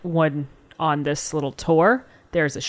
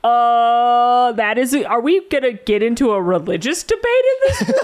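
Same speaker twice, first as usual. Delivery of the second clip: laughing; 4 semitones higher, 3 dB louder than usual. Real, not acted. Laughing disbelief.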